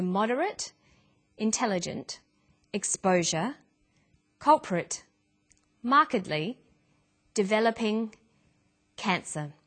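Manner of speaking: moderate, intelligent, exposure, culprit, markedly, developing, cancer each said alone with the stressed syllable clear; teacher reading a word list for stress practice; word stress demo. Shown as a demonstration. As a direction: model each word's stress, unstressed vowels short. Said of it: "short, relaxed sounds".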